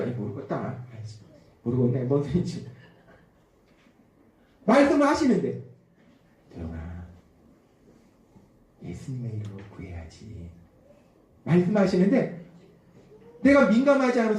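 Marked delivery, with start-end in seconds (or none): 0.0-2.7 soft, low puzzled muttering; 어리둥절한 혼잣말. Acted. Acts out inattentive listener. 6.5-10.5 very soft, low, tender prompting; whisper-quiet, coax gently as the Spirit; 작고 세미한 음성. Acted. Spirit's small voice acted out.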